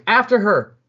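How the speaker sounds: a full-voiced order to the soldiers; yelled order. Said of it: "But he's yelling".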